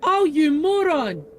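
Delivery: loud, slow exasperated self-scold; exasperated at yourself, loud. Real, not acted. Scolds himself after realizing.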